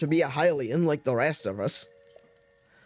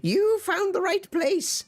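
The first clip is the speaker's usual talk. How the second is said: shopkeeper voice; 6 semitones higher than usual. Acted. Voices the dye shop keeper.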